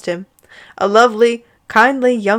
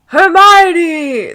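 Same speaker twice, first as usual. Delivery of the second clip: higher and louder summons; calling loudly; 8 semitones higher, 7 dB louder than usual. Acted. Father summoning Hermione, calling out louder. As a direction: call her down the stairs. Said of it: "the Reverend summoned loudly".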